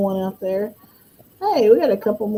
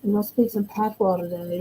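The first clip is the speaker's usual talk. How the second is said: Jamaican patois; 7 dB quieter than usual. Shown as a demonstration. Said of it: "Did I say that right?".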